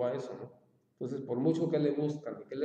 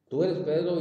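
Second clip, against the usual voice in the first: 'Tú eres Pedro' said alone, higher and louder, as a separate sentence; set apart and punched; 5 semitones higher, 7 dB louder than usual. Retold or imitated. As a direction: bang out 'Tú eres Pedro' on its own, then stop. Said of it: "y luego cambió así". ('Tú eres Pedro' dicho aparte, más agudo y fuerte)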